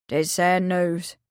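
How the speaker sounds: a touch of grief, slowly; sad old man. Acted. Old Willie breaking sad news, slow and mournful. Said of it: "he said".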